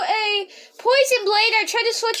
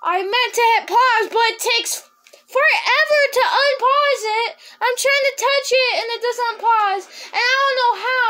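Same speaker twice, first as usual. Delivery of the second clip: extra mad; 4 semitones higher than usual. Real, not acted. Gamer apologizes to viewers for ending the video, frustrated. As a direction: complain about the phone, annoyed. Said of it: "now I'm extra mad".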